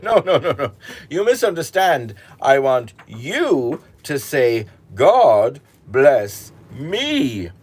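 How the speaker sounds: high, loud laughing protest, slowing at the end; a king losing patience, spelling it out; exasperated king. Acted. King corrects shepherd, exasperated.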